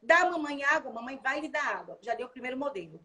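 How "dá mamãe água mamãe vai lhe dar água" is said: lightly voiced mother, clear and inviting; mother modeling speech. Shown as a demonstration. Mother offering water to her child, gently modeling words. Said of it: "Aí você faz".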